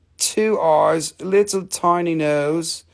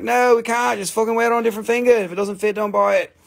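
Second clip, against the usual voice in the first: retold refusal; 6 semitones higher, faster than usual. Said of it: "And I'm like".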